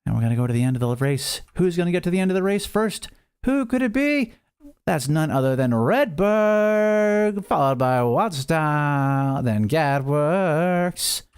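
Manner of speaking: lively marble race play-by-play; excited race caller, a touch hammed-up; race announcer. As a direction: call the race like a sports announcer. Live marble race commentary.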